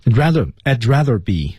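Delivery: I'd linked lightly into rather; light linking. Shown as a demonstration. Teacher showing students the link in I'd rather, lightly linked. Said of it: "其实它多少带了一点小的连读".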